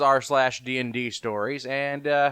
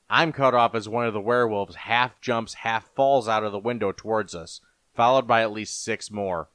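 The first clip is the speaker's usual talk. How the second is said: lower, measured storyteller voice; story narration; 4 semitones lower than usual. A narrator's reading. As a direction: narrate a fantasy horror tale. Narrates fantasy horror story.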